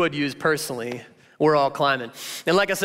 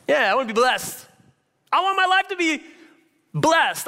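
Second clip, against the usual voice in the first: yearning wish; 10 semitones higher than usual. Pretend. Longing for a blessed life.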